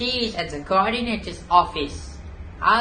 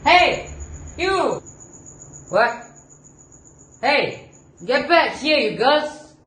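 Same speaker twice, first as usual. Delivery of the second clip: loud, higher shouting after them; guard yelling; 6 semitones higher, 4 dB louder than usual. Acted. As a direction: chase them with your voice. Guard yells after fleeing girls.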